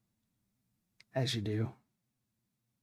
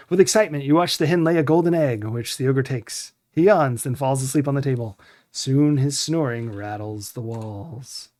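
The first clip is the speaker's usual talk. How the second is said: game narration read aloud; 3 dB louder than usual. A narrator's reading. Player reading the hen scene from the game, in lively narration. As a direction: tell it like a storybook, easing off at the end.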